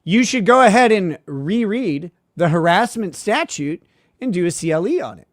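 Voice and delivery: speaking up for a lawyer who claims not to hear. Retold or imitated. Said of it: "a little bit louder".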